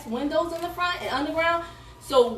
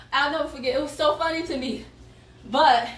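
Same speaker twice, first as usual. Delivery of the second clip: out of breath; 2 semitones higher than usual. Real, not acted. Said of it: "whew, I'm out of breath".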